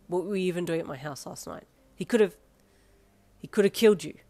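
builds from firm to a loud angry shout; angry rising shout. A narrator's reading. To Yin in hospital, building to a loud angry shout. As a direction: shout that he could have died.

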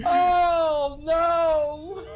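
laugh-crying. Real, not acted.

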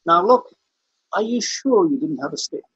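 lightly imitated Welsh barrister; Rhys Vaughan's Welsh accent. Lawyer gives the farmer one last chance, insistent rough Welsh. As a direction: press the question in a rough Welsh lilt. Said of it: "I can't really do the Welsh accent".

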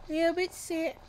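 whispered complaint of feeling sick. Shown as a demonstration. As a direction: whisper it weakly. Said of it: "Why am I talking like this?".

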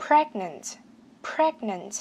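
"Pregnant" ending on an audible T; released final T. Shown as a demonstration. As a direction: let the last T of "Pregnant" pop. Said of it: "bật chữ T ra". ("Pregnant" bật rõ chữ T ở cuối)

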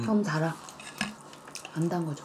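eating toast while speaking; talking while chewing. Real, not acted. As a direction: mouth partly full of food. Seen 0: Bites toast at -1.0, holds it and chews while speaking.

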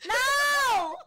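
yelled high no; loud protest. Real, not acted. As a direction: shout it in outrage. Protesting loss, loud outburst.

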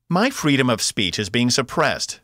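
high, loud protesting shout; loud mock outrage at the guard; indignant yell. A narrator's reading. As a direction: cry it out like a wronged rebel. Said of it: "Box yelled".

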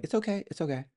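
high-pitched, lightly acted reassurance; retold soothing. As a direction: gently imitate calming someone who is crying. Retold soothing of crying ex-wife.

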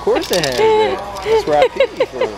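high joking voice. Pretend.

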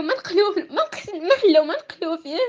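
breaking voice, near tears; tearful protest; angry crying. Real, not acted. Upset student venting about cheating.

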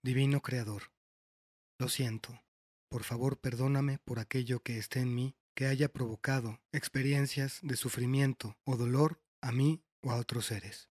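measured prayer reading with pauses between phrases; recited prayer. Acted. Guide praying to the Divine Creator for forgiveness, measured prayer voice.

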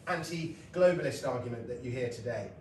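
normal talking voice

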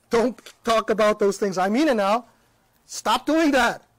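blunt mock-stern orders; very forward. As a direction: lay down the law, half laughing. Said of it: "I'm being very forward".

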